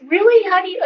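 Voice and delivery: high-pitched, astonished question; retold surprise. Nurse questioning the woman who knows about her baby, surprised. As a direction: imitate a startled, incredulous listener.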